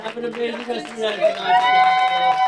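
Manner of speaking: high, loud showman farewell; excited showman send-off. Acted. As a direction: belt out the goodbye. Showman's closing line.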